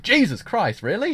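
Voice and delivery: a retold gasp of disbelief; shocked disbelief. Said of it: "I was like".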